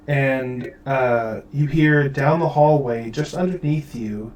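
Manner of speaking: normal talking voice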